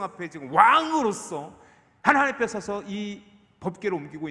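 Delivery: building, aggrieved protest to God; David's angry protest. Acted. David questioning God over Uzzah's death, mildly angry protest. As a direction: appeal with mounting indignation, then let it drop at the end. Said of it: "화내고 있는지도 몰라요".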